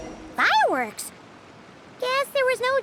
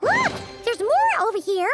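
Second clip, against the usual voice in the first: excited call. Acted. To the traveler, eagerly calling them over to look.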